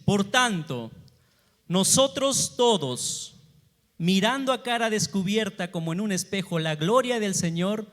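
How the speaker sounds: measured, emphatic Bible reading; solemn pulpit reading with firm projection; scripture reading. Acted. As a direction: proclaim the verse to a congregation, stretching the key words. Reads the Bible verse aloud.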